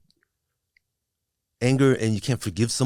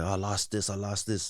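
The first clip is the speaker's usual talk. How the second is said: quiet self-pity; 6 dB quieter than usual. Retold or imitated. Recalling dwelling on what he lost, quietly repeating. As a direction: murmur it like you're stuck on it.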